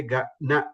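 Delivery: "na" with a flat tongue, no curl. Shown as a demonstration. Teacher showing what people say, flat "na". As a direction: say "ga, na" with an ordinary dental n. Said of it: "normal flat na".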